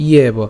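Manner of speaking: ইয়েব opening on an i-e glide; y glide before e. Shown as a demonstration. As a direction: sound the y in ইয়েব clearly, i-eb. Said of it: "তাহলে উচ্চারণটা কী হয়ে যাবে".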